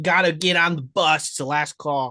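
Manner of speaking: put-on thick, laid-on Boston accent. Playing back the teacher's words about the bus: heavy Boston accent.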